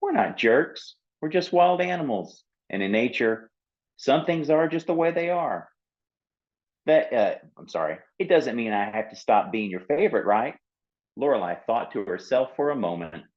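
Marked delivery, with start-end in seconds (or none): 0.0-10.6 lightly high, gentle apologetic seal; explaining seal. Acted. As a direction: reason kindly with her.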